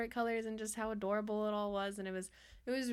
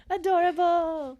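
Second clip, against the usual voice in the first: loud laughing squeal; 9 semitones higher, 13 dB louder, slower than usual. Real, not acted.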